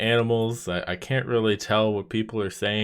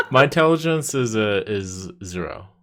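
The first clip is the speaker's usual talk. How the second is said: laughing; 6 dB louder than usual. Real, not acted. Laughing while answering.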